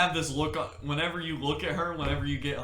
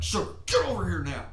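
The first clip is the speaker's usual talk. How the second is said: calling the dog; 4 semitones higher, 6 dB louder than usual. Retold or imitated.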